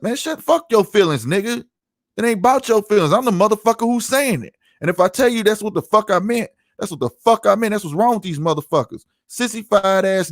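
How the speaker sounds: worked-up rant, pitch up high; angry outburst. Real, not acted. Real rant at commenters.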